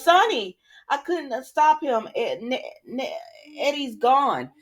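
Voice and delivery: panicked report. Retold or imitated. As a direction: burst in with bad news. Nina runs in panicking.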